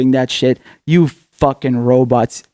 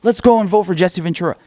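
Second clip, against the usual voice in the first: higher-pitched mocking imitation of voters; mock-eager higher voice; mocking supporters; 5 semitones higher than usual. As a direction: parrot the naive voters, pitched up. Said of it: "They're like".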